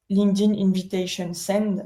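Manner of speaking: English words in a French accent. Real, not acted. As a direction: read the English term with a real French accent. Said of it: "avec mon magnifique accent anglais".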